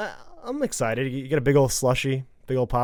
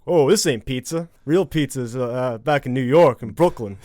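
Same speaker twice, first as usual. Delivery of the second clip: put-on a light, louder New York accent for a pizza snob; mock Brooklyn accent, lightly done; 5 dB louder than usual. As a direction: Eddie Brock griping in a New York accent. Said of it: "With his terrible accent".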